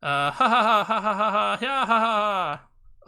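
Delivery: loud, helpless laughing fit; real laughter. Real, not acted. Streamer cracking up at the game, laughing loudly.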